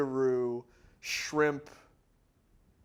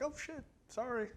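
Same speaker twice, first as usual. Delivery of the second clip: mock apology; 10 semitones higher, 10 dB quieter than usual. Acting out Big Mama's reaction.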